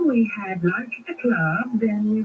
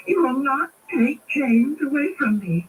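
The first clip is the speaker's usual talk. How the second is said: threat; 5 semitones higher than usual. Acted. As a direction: build to the kill threat. Sister threatens sister.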